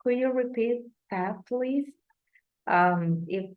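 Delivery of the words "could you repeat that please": plain American phrasing; American-sounding. Shown as a demonstration. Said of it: "this question should sound like this".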